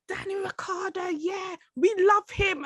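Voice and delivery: dad's voice. Retold or imitated. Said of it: "my dad was like".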